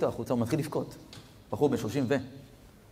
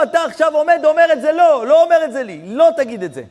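loud, much higher fervent exhortation; passionate urging; 14 semitones higher, 9 dB louder than usual. Retold or imitated. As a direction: shout at him to pour it out to God. Rabbi urging the crying man. (הפצרה נלהבת בקול רם)

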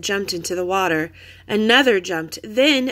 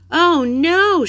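high, loud alarmed cry; shout; 9 semitones higher, 6 dB louder than usual. A narrator's reading. Annie shouts in alarm at the wildebeest, high and loud. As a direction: yell it in sudden alarm. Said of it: "shouted Annie".

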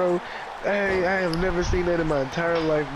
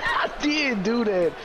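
mocking imitation; 5 semitones higher, slower than usual. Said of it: "He said".

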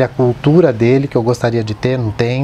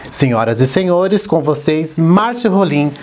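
rising presenter flourish on the name; grand entrance announcement. Pretend. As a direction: announce the guest like a showman. Host introduces guest on show.

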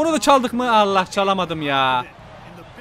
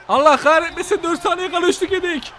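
frustrated outburst; 8 semitones higher than usual. Real, not acted. Conceding last-second three.

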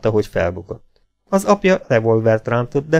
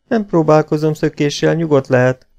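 firm answer, pitched up; determined reply; 6 semitones higher, 3 dB louder than usual. A narrator's reading. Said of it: "felelte határozottan".

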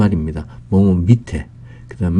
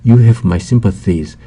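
very slow, every word laid out; slow, careful example sentence; slow model reading; 4 dB louder, much slower than usual. Shown as a demonstration. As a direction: read it slowly for learners to copy. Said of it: "model sentence read slowly".

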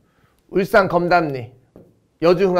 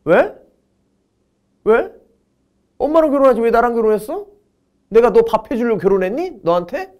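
higher-pitched, indignant wife retort; imitated wife; 7 semitones higher than usual. Wife challenging her husband who misses mom's cooking, indignant imitation. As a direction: mimic a wife firing back rhetorical questions. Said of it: "우리 와이프가".

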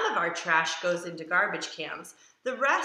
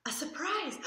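gasped, much higher and softer surprise; mock gasp; 9 semitones higher, 5 dB quieter than usual. Reader acts the dog's surprise for the children, soft gasp. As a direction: gasp and breathe the word out.

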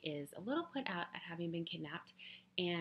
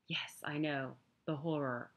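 whisper. Acted. Sarcastic aside whispered.

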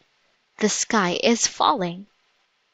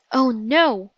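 ordinary delivery

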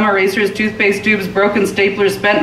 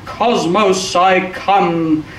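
a hint of the awakened junk giant; crying out; much slower than usual. A narrator's reading. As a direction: proclaim it grandly without shouting. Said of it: "cleared his throat and cried out".

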